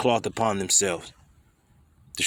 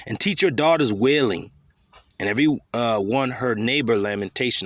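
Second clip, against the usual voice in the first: scripture reading. Acted. Reads Jeremiah to women.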